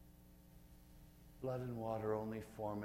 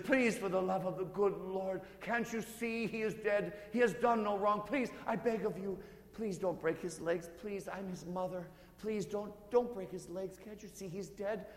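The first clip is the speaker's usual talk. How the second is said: much higher, louder, begging the soldier; desperate mother pleading; 12 semitones higher, 9 dB louder than usual. Acted. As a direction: throw yourself between him and the soldier and beg. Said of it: "as she's pleading".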